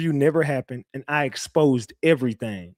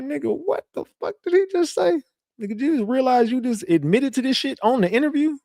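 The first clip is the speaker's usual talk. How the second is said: much higher, alarmed inner voice; hammed-up shock, am I getting out alive; mock panicked thought; 10 semitones higher than usual. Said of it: "I'm like".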